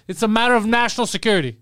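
hint of a pompous secret agent; mock secret agent. Retelling the parking guy's claim, mild mock agent. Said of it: "he can't say anything more".

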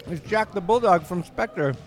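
talking through a stuck mouthful; talking with mouth closed. Real, not acted. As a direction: mouth glued shut with candy. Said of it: "my mouth is glued shut by fruit by the foot".

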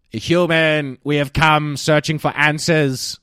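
a hint of a solemn alien; slow, grand alien announcement. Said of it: "I'll play the role of aliens".

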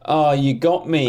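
mock defeated squeak; high hammy "you got me"; silly high voice. Mock defeat reply, high far voice.

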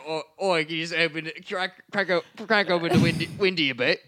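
put-on playful Australian accent; mock Australian. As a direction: bird coaxing Owen to open the window, mock Aussie. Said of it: "He was like".

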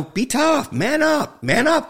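high, loud mocking of tough-guy slogans; mimicking what guys are told; mock macho orders. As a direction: bark the slogans like a drill coach. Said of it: "the expression man up".

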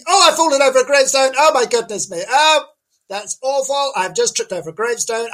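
high comic reporter, suddenly flustered; hammed-up dismay in a put-on high voice; Janice. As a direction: yelp and fuss after tripping over, high-pitched. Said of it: "we were gonna talk to Janice".

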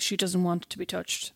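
a hint of a flat, slow husband; slow, matter-of-fact quote; flat literal husband. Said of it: "he is very literal".

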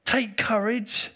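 breathy slow whisper of the phrase. Shown as a demonstration. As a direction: whisper it gently, drawn out.

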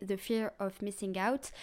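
slow, careful English accent on the phrase. Shown as a demonstration. Explains FOMO to her viewers in a slow English accent. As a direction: show off your best English accent, slowly. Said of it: "avec mon bel accent anglais".

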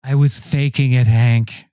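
put-on low voice for the wife; confessing wife. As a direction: drop the pitch and confess firmly. Wife confesses to faking death.

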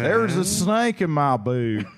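Woody pull string toy. Pretend. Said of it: "Woody from Toy Story".

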